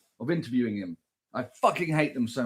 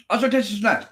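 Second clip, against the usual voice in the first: mock delight; 7 semitones higher than usual. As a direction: gush like it's the best day ever. Tasting on mouth cam.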